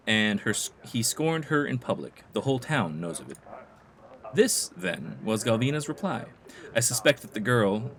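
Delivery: measured, theatrical telling of town intrigue; game informant. Acted. Informant tells player of Galvina's feud, theatrical storytelling. Reads game character's dialogue aloud.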